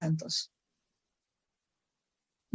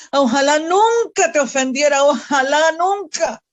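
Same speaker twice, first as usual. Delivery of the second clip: loud, higher outburst of longing; fervent cry; 4 semitones higher, 4 dB louder than usual. Acted. Preacher crying out to God mid-prayer, fervent and loud. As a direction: cry out the wish that you never offend him.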